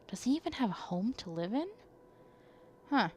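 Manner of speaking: reading the game's narration in a lightly voiced tone; story narration. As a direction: narrate the scene as if telling a story. Reads visual novel narration aloud.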